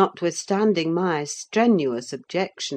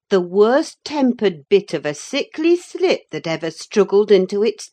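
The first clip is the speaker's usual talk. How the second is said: scornful housekeeper; 4 semitones higher, 6 dB louder than usual. A narrator's reading. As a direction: spit out the insult. Ellen scorning Linton.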